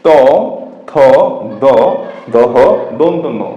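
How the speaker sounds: ত থ দ দহ ন each tapped alone on the teeth; one beat for each of ত, থ, দ, দহ, দন্ত ন; dental letters demo. Shown as a demonstration. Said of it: "এই".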